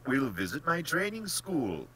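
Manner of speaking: high, loud, smiling invitation. A narrator's reading. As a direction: announce it with a pleased smile. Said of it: "smiled the general".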